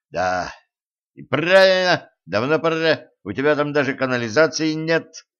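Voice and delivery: indignant outburst, high and loud. Acted. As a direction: throw up your hands in outrage. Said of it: "возмущённо всплеснул руками водяник".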